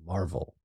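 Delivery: "marvel" set apart after a pause, said low and soft but deliberate; stress on marvel. Retold or imitated. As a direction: lean on "marvel" as a loaded word. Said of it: "he emphasizes that word".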